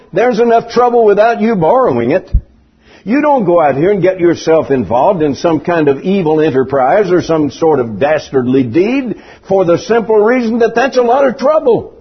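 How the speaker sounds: ordinary talk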